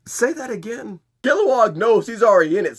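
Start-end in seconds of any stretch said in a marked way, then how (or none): 0.1-1.0 higher but softer threatening dare; quiet menacing challenge. Retold or imitated. Ermi challenges Kilowog after taking off his ring, menacing. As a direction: dare him to repeat it. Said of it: "looks at Kilowog and says".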